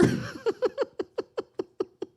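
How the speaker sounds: high, stuttering fake sobs; hammed-up sobbing that trails on; mock crying. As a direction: imitate helpless weeping. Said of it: "immediately starts crying, and she goes".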